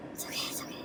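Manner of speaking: hushed reassurance, barely voiced; self-soothing whisper. Real, not acted. Calming herself down after losing it, whispered. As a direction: whisper it softly to yourself.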